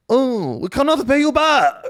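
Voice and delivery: high-pitched bad Greek accent; botched Greek accent. Imagined Greece on a call with Lagarde, botched Greek accent. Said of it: "I can't do any accents".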